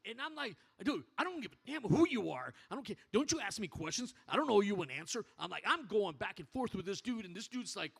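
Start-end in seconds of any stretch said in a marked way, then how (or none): 0.8-5.3 retold defiance. Standoff with big guy retold.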